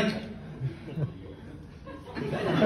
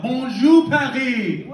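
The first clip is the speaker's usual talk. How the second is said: louder crowd greeting; 3 semitones higher, 5 dB louder, slower than usual. Real, not acted. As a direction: push it louder to get energy back. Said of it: "I need way more energy from this crowd".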